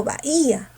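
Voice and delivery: BAHÍA with a long strong I; stressed I. Shown as a demonstration. Teacher comparing true hiatuses, stressed I in bahía. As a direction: stretch "bahía" as ba-Í-a. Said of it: "La fuerza no está en la U".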